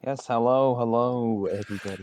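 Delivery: lightly put-on Irish accent; a hint of an Irish lilt; fake Irish accent. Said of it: "You sound even more Irish now".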